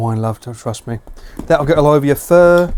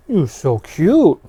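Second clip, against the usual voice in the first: dog voice; 3 semitones higher, much slower than usual. Real, not acted. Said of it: "Dog voice".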